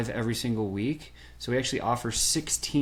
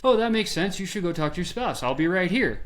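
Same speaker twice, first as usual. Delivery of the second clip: higher, chirpy mock clerk; obliging salesman; 6 semitones higher than usual. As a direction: play the agreeable clerk. Salesman agreeing with customer.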